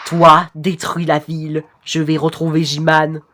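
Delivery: monotone robot commander; robotic voice. Acted. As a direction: give orders in an even robot drone. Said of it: "je voulais plutôt faire une voix robotique". (voix robotique monocorde)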